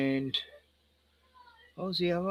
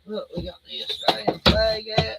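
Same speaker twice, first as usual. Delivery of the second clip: higher, cheery parent voice; 6 semitones higher than usual. Real, not acted. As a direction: show it off to a little one. Parent showing toddler a flag.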